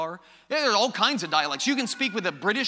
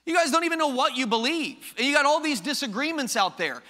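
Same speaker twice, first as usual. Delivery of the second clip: lightly voiced scoffing skeptic, pitched up; world's objection; 5 semitones higher than usual. Skeptical world challenging Christians over disagreements, mildly mocking objection. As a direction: raise the pitch a little, challenging the believers. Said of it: "The world says things like this".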